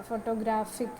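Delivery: ഫോട്ടോഗ്രാഫിക് with main stress on ഗ്രാഫിക്; stress on GRAPHIC. Shown as a demonstration. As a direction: put the weight on the ഗ്രാ of ഫോട്ടോഗ്രാഫിക്. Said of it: "primary stress വരുന്ന ഗ്രാഫിക്".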